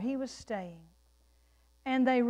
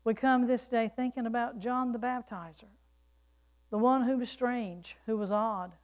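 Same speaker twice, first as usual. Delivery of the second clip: prayer. Real, not acted. Leads congregation in prayer.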